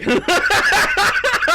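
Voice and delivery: loud, very high cackle; real squealing laughing fit; shrieking laugh. Real, not acted. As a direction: lose it completely at your own bit. Cracks up at own accent.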